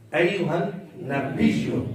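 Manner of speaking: slow "ایو ہن نبیو", baa pressed into ya; careful model "ایو ہن نبیو"; correct pronunciation demo. Shown as a demonstration. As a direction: lean on biyy in "نبیو". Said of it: "با کو یا کے ساتھ ملانا ہے".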